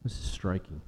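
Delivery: whispered, barely voiced; hushed whisper. Real, not acted. Preacher whispering to the congregation in awe. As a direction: breathe it out in awe.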